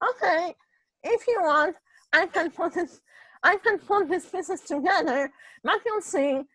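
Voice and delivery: a hint of a condescending surgeon; quoting the doctor. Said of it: "And he was like".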